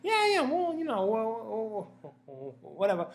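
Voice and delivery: high, breezy dismissal trailing away; shrug, let it go; shrugging it off. Retold or imitated. Bill Burr brushing off the jab, breezy. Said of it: "He looked like he'd be like".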